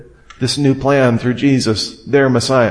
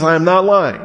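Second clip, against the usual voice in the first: "I am not lying" pitched up and firm; emphatic; 4 semitones higher than usual. Retold or imitated. Preacher quoting Paul's oath to his readers, emphatic. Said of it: "emphatically stating with emphatic language".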